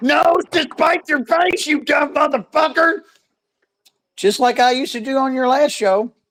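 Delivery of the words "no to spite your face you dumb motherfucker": put-on exasperated, furious, high-pitched screaming rant. Imitating someone screaming at their phone over a mangled saying: imitating someone screaming. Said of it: "screaming at their fucking phone".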